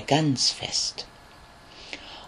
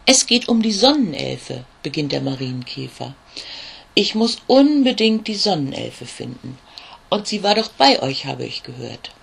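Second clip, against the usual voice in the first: small ladybug Olli; 3 dB louder than usual. Acted.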